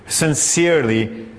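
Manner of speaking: "sincerely" drawn out slowly and deliberately; emphasis on sincerely. Real, not acted. Preacher telling people what makes us feel loved, "sincerely" slowly emphasized. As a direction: give "sincerely" slow, deliberate weight. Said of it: "I want to emphasize the word sincerely".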